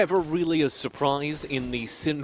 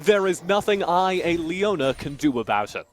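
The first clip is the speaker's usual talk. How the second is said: solemn hero voice; 5 semitones higher, 4 dB louder than usual. Acted. Solemn mock Leona monologue.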